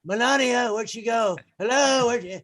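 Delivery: mock-puzzled hollering for a partner; calling out. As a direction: call after someone who has wandered off. Calling after missing duet partner.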